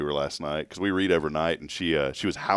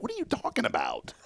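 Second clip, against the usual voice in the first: retold joke; 11 semitones higher than usual. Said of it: "I was like".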